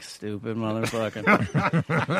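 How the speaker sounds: slow, drawn-out mock contempt; retold insult, savoured slowly with amusement; scornful. Retelling his scornful inner reaction.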